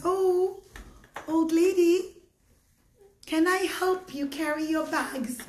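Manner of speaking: lightly voiced concerned young man; kindly offer. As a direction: gently call out to an old lady. Yehuda offers old woman help.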